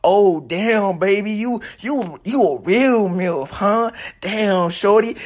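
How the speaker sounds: thirsty guy. Retold or imitated. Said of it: "talking about".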